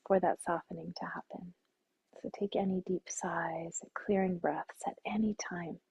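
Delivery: calm, unhurried meditation guide with long pauses; guided meditation. Acted. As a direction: settle listeners gently into stillness.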